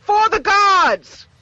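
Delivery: high, slow war cry; battle cry. Acted. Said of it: "and then yells".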